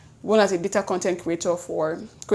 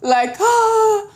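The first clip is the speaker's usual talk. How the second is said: high strained croak of a lost voice; hoarse voice; 14 semitones higher, 5 dB louder, much slower than usual. Retold or imitated. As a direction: squeak it out like your voice is gone. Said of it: "My voice was a singer".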